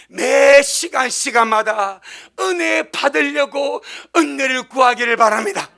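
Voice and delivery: slow, loud pleading exhortation; impassioned exhortation. Real, not acted. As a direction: drag it out, urging them hard. Preacher exhorting the congregation.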